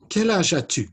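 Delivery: high, loud puppet question; high-pitched character voice; Inez puppet voice. Acted. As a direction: pipe up as a little puppet quizzing the class. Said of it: "Inez is gonna practice with you".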